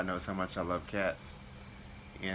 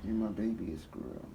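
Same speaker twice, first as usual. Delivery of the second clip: sweet nothings; 6 dB quieter than usual. Real, not acted. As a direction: coo it softly to the cat. Sweet talk to his cat.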